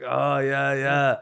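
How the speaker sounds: lightly imitated Colombian accent. Neighbor hearing they're from Canada, light Colombian accent. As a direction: agree with a hint of Colombian accent. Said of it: "like, Colombian accent".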